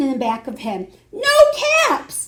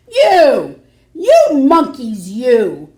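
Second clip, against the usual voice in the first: louder scolding call at the monkeys; 9 dB louder, slower than usual. Acted. Peddler scolding the monkeys in the tree, louder. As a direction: scold the monkeys, finger wagging. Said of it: "he said".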